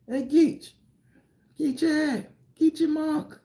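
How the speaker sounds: high, carrying call of a relative across the yard; family calling him. Retold or imitated. Relatives calling young Geechee over, high and carrying. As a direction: sing out the nickname like family hollering for a kid. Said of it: "go to my family".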